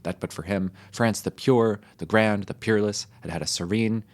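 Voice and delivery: orate like a pompous French patriot; a hint of a swelling revolutionary speech; mock French orator. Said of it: "A French speech is something like this".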